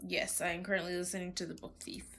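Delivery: usual speaking voice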